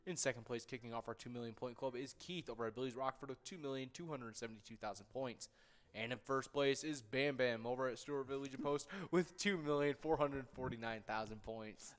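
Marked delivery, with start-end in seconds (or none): 6.0-11.9 monster truck announcer. Acted. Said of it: "monster truck announcer in that one".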